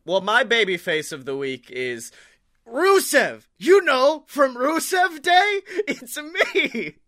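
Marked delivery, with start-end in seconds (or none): 2.7-6.9 high, loud Bulgarian wrestler impression; Bulgarian accent. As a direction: put on a hammy Bulgarian accent, pitched up. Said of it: "it's so, like, Bulgarian".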